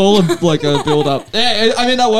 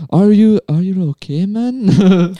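bad Scottish accent; 4 semitones higher, much slower than usual. Comic trying the film's last line, bad Scottish accent. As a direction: put on a poor Scottish accent. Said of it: "That was my worst Scottish accent ever".

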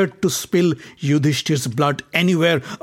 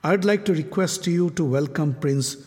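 gentle. Acted. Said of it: "with a faint smile".

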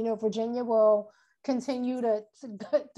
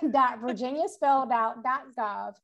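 slow spelling out; slower than usual. Shown as a demonstration. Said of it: "Our website is".

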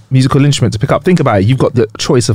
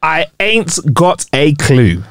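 slow, stretched catchphrase delivery; drawn-out catchphrase; 2 semitones higher, much slower than usual. Acted. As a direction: draw out the show's catchphrase.

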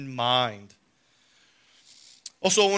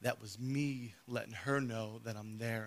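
retold whisper; 6 semitones lower, 13 dB quieter, slower than usual. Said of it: "the Lord whispered in my ear".

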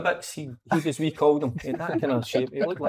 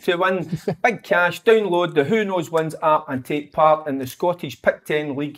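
ad read. Acted. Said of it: "wanting to read things out".

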